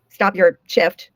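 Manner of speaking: very slow, kindly spelled-out; nicest way. Retold or imitated. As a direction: say it gently, stretching each word. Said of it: "in the nicest way".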